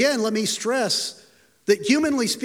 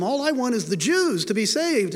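ordinary talk, nothing marked

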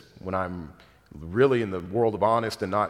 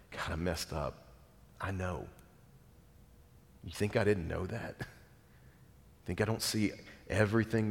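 soft, quiet fatherly reply; hushed reassurance from God to the penitent; 4 dB quieter than usual. Acted. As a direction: speak as a gentle forgiving God. God voiced answering the sinner.

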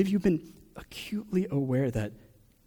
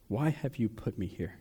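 softer, drained plea to God; quiet plea; 2 semitones lower, 5 dB quieter than usual. Retold or imitated. Preacher voicing a hurting believer, a softer, defeated plea. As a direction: let the question sink to near a hush. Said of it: "you're asking God".

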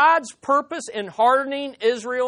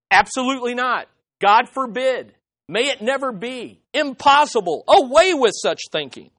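firm, ringing denial, a bit louder; emphatic refusal; 3 semitones higher, 4 dB louder than usual. Retold or imitated. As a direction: slam the door on the idea. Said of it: "in that famous way that Paul says".

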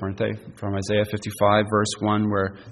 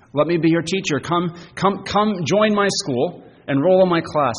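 higher-pitched, urging appeal; eager invitation; 5 semitones higher than usual. Retold or imitated. Preacher voices Jesus calling pupils to his school, eagerly. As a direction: beckon them in, pitch lifted.

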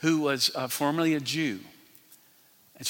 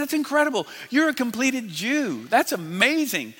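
higher-pitched, enthusiastic marvelling; retold amazement; 6 semitones higher than usual. Preacher retelling his reaction to a converted Jew, amazed. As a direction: re-enact being thrilled for someone.

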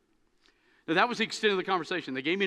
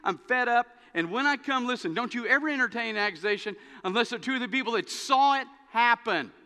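fed-up Paul; 3 semitones higher than usual. Retold or imitated. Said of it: "that's why Paul says".

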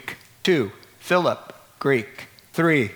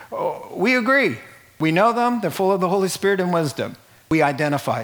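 higher, eager agreeing; a hint of keen approving elders; mock eager elders; 4 semitones higher, faster than usual. Elders affirming the men, voiced.

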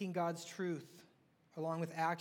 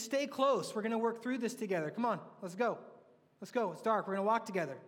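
higher, louder rallying to stay close; rally the group forward, louder; a guide urging followers through darkness, higher and louder; urgent encouragement; 4 semitones higher, 4 dB louder than usual. Pretend. Acting Jesus urging followers together.

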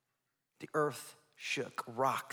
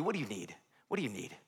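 gentle father; 5 semitones lower, 3 dB quieter, faster than usual. Pretend. God voiced as a loving father.

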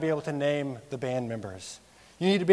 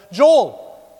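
calling out a name; 6 semitones higher, 11 dB louder than usual. Retold or imitated. Someone calls out a caught liar.

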